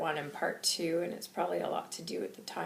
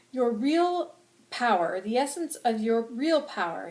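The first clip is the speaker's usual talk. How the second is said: slow, loud, weighty oratory; angry, passionate; 4 semitones higher, 5 dB louder than usual. Acted. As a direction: lean hard on each word. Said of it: "I'm very angry and I'm very passionate".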